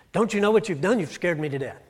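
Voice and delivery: a parent's hammed-up relief and alarm; exasperated parent. Parents scolding a lost child.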